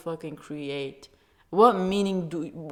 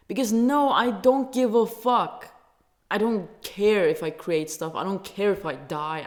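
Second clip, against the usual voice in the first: angry outburst; 6 dB louder than usual. Real, not acted. Angry outburst about life's meaning.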